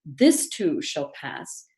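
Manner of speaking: "This" leaned on, rest slow and even; stress on THIS. Shown as a demonstration. Teaching the convocation line, stress on "This". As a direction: press hard on "This", then let the phrase go slowly. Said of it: "repeat this four times with an emphasis on a different word".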